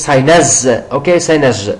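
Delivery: British-style "cynosure" broken off as SIGH-naz; British "sinus", ending on a voiced z; British pronunciation. Shown as a demonstration. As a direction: say the start of "cynosure" with a buzzing z, British way. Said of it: "In British accent it is".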